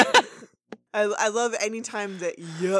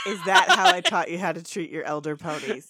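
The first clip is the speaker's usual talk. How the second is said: louder mock-sarcastic granny; sarcastic scolding; 2 semitones lower, 7 dB louder than usual. Granny pony chiding a youngster, loudly sarcastic. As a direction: scold with a pointed rhetorical question. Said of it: "she does not get the sarcasm".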